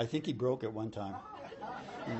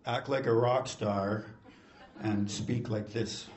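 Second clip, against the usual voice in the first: rock-star delivery, demonstrated; slower than usual. Shown as a demonstration. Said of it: "apparently I speak softly".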